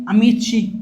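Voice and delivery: أميتشي said as a-MEE-tchi, with a tch sound; Italian word amici. Shown as a demonstration. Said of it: "قال لك أميتشي جمع مذكر".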